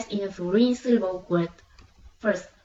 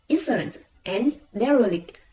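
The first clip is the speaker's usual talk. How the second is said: "insolent and derelict" with IN and DE strong; first-syllable stress. Shown as a demonstration. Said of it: "tends to be placed on the first syllable".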